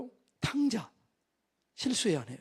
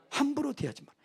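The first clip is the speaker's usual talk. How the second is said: higher-pitched rebuke, 함부로 stressed and falling; raised stern father; 7 semitones higher than usual. Acted. Father warning the crowd about his son, higher and sharper. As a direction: lift the voice on 함부로 to scold.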